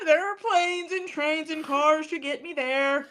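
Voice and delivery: a hint of Trump cadence; Trump impression. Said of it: "I sound like Trump".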